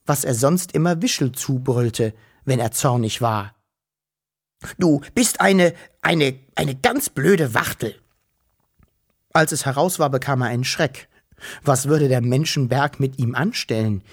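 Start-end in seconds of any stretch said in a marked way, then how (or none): 4.8-7.9 stammering, half-yelled insult; mild shout. Acted. Wuschel yells at the fat woman, stammering. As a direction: sputter the insult out in a rage. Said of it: "Und er schrie der dicken Frau ins Gesicht".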